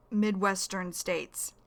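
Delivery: "Midwestern states" said slowly, each syllable clear; teacher modelling "Midwestern states" slowly for learners; slow, careful repeat. Shown as a demonstration. Slow vocabulary repeat to students of "Midwestern states".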